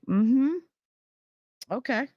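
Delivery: pursed-lips sarcastic okay; tight sarcastic mm-hmm. Retold or imitated. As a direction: hold back the anger in a high mm-hmm. Retold tight-lipped reply.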